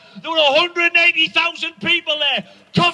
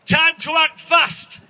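mock advert voice; slower than usual. Parodying a stroke advert on the telly, solemn announcer voice. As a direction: intone it like a TV health ad. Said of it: "Have you seen that one?".

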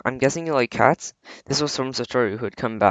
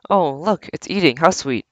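cooing; 5 semitones higher than usual. Acted. Couple cooing over eating cat.

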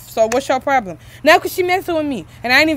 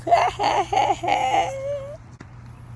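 high, drawn-out cackle; taunting laugh; 12 semitones higher, 7 dB quieter than usual. Acted. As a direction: laugh in a long, high string of ha-has. Sibling mocks over dishes.

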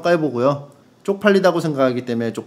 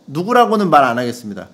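usual speaking voice

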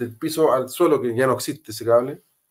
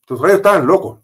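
louder and higher, outraged; indignant outburst; 5 semitones higher, 4 dB louder than usual. Real, not acted. Officer recalling the cheering crowd, indignant and loud. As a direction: spit it out in disbelief.

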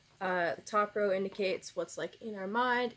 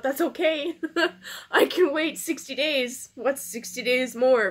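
laughing through tears; 4 semitones higher, 6 dB louder than usual. Real, not acted. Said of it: "didn't mean to cry on camera".

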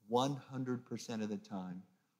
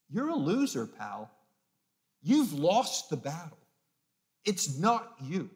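taunting whisper-voice; 3 semitones higher, 4 dB louder than usual. Retold or imitated. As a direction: needle him with contempt. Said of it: "a voice in his ear going".

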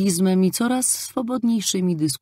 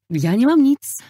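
high, loud and decisive; a defiant answer to the priest; firmly; 8 semitones higher, 7 dB louder than usual. A narrator's reading. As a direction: state it flatly and firmly. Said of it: "powiedziałam zdecydowanie".

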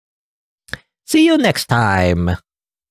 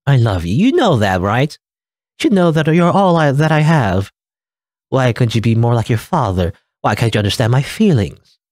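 higher, begging mom with a mild tearful edge; pleading mother; 4 semitones higher than usual. Acted. Mother begging her child, lightly voiced tearful plea. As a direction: beg your child to see your effort.

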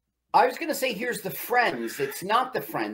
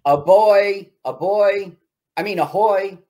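louder, higher mock sailor hail; calling out; 4 semitones higher, 7 dB louder than usual. Co-host joins the yacht hail, calling out. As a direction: call across the water in jest.

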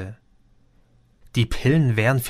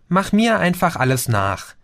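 higher-pitched, lightly grinning reassurance; 7 semitones higher than usual. A narrator's reading. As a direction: say it through a grin. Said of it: "grinste Madison".

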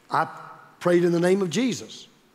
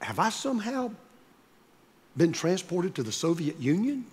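softer, wide-eyed mock puzzlement; mock innocent question; 6 dB quieter than usual. Pastor needling the lawyer with a soft, innocent question. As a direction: ask it softly as if truly baffled. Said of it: "He said".

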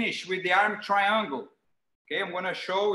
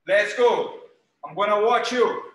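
calling out; 5 dB louder than usual. Real, not acted. Coach calls class to start.

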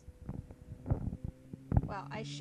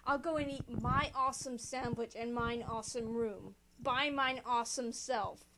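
Prussia. Retold or imitated. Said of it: "It's like Prussia just walks off".

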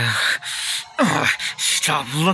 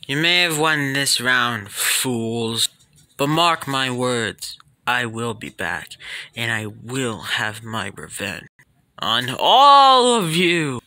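villain vowing revenge; 7 semitones lower than usual. Acted. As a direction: swear revenge like a beaten villain. Defeated villain vows revenge.

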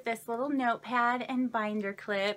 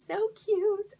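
delighted squeal; 11 semitones higher, 5 dB louder than usual. Real, not acted. Delighted by an owl sticker.

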